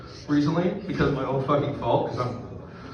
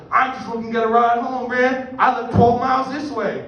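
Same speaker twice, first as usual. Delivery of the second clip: higher-pitched hitchhiker voice, lightly put on; imitated stranded man; 6 semitones higher than usual. Stranded driver asking for a ride home, lightly voiced higher. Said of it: "And he's like".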